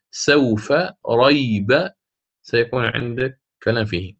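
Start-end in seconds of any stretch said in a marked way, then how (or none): 0.1-1.9 سوف ريب with stretched diphthongs, very slow; long lin vowel. Shown as a demonstration. Teacher demonstrating the lin vowels slowly. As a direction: draw out the waw in سوف and ya in ريب. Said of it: "يعني".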